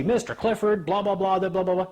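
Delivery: high mock judge rattling on; droning judge. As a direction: parody her endless babble. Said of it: "And she".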